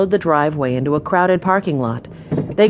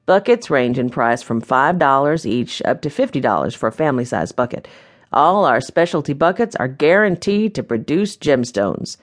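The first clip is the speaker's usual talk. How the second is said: lightly voiced genial host, a little lower; a hint of a folksy proprietor welcoming guests; welcoming mine owner; 3 semitones lower than usual. Mine owner greeting new guests, lightly voiced and welcoming.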